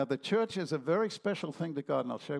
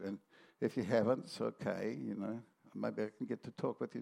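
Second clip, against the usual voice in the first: stiff religious witness; 2 semitones lower than usual. Retold or imitated. Preacher mocking how religious people witness, lightly parodied. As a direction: send up a polite street evangelist. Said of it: "what you're supposed to say if you're religious and witnessing".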